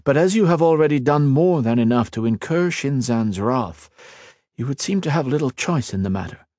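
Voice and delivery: a hint of a calm young lord; earnest mage, lightly voiced. Ethan explaining to the Queen, lightly voiced earnest.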